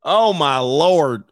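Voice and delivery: slow exasperated oh my lord. Real, not acted. Reacting to shocking picture.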